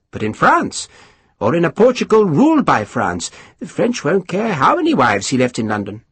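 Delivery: high, mannered lord spreading gossip; high aristocrat voice. Acted. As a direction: lift the pitch, savour the scandal. Pumphrey explains.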